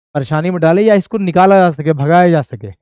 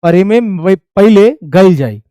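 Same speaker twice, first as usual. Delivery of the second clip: recited line; 5 dB louder, slower than usual. Shown as a demonstration. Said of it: "इसका मतलब समझो कि".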